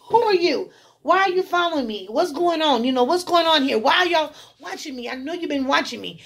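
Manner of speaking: retelling a scared confrontation in a dream; panicked questions. Retold or imitated. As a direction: fire questions at them in alarm. Confronting men following her.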